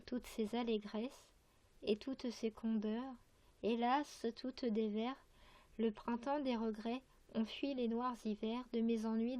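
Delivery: measured verse reading with pauses between phrases; poem recitation. Acted. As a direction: recite line by line, carefully articulated. Reads a poem aloud. (lecture de poème, vers par vers)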